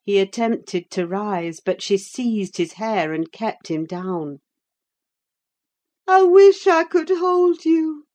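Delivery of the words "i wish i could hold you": high, loud and bitter woman's voice; dying Catherine cursing her lover; bitterly. A narrator's reading. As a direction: wish it on him with venom. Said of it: "she continued bitterly".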